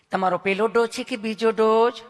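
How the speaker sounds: a lightly voiced, lovingly polite nurse; mild honeyed nurse voice; sweet nurse. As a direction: ask like a nurse who is all sweetness. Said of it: "તમે કેટલું પ્રેમથી પૂછો છો".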